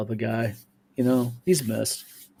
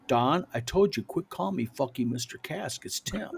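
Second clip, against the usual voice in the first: mock gruff Tim; 6 dB quieter than usual. Tim scolding, quoted.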